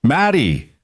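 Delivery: mild panic, pitch jumping then falling; panicked. A narrator's reading. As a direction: burst in calling for a child. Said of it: "his face pale with panic".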